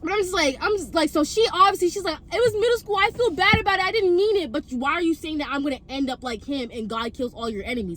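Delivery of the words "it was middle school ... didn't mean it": defensive excuse. Retold or imitated. Friend's defensive excuse acted out.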